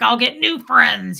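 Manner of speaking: put-on growly voice. Retelling what Fred said that night: imitating Fred growling. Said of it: "He was super growly".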